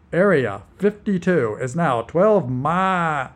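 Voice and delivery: slow robotic GPS voice; flat machine voice, cutting off mid-word. Acted. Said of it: "The robotic voice twisted".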